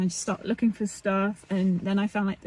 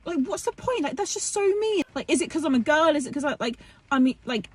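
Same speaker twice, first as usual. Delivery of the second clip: upset apprentice; 6 semitones higher than usual. Acted. Apprentice girl getting upset.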